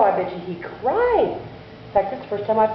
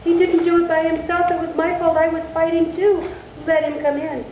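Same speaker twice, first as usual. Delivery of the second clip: put-on high, earnest plea of a young boy; lightly voiced boy pleading with mother; pleading child; 10 semitones higher than usual. A narrator's reading. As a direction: beg your mother to let him in.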